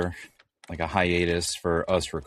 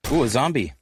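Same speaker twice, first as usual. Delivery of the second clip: surprised; 6 semitones higher, 6 dB louder, faster than usual. Real, not acted. Spots a zombie in game.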